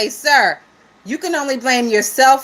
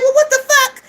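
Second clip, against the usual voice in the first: imitating own startled reaction; mock alarm at the disclaimer; retold shock; 11 semitones higher, faster than usual. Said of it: "So I'm like".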